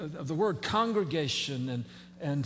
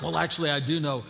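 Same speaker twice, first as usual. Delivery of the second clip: laughing; 4 dB louder than usual. Real, not acted. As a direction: chuckle while teasing the congregation. Joking about bird brains.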